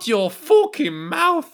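put-on high, slow Irish accent shout; Conor McGregor Irish accent. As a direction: bark it in a thick Irish accent. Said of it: "Sachen mit irischem Akzent zu sagen".

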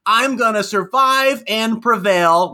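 slow, loud promo catchphrase; wrestling promo. Retold or imitated. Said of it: "he says".

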